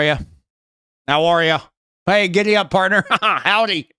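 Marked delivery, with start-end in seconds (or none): 2.0-3.9 cowboy American. Acted. Joking American stereotype for Kiwis, mock cowboy accent. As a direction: ham up a Texan howdy.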